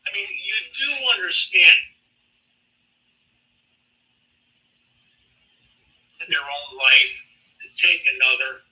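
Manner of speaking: choppy breaking-up phone line; glitchy call audio; bad connection. Real, not acted. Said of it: "You broke up".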